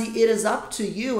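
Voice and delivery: "It is up to you" said slowly with "it" rising; slow model phrase. Shown as a demonstration. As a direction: lay out each word slowly for students. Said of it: "Então a frase". (frase de exemplo dita devagar)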